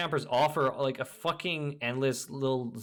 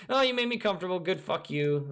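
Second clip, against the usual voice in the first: mock comfort camper; 6 semitones higher, 6 dB louder than usual. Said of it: "They don't give a fuck".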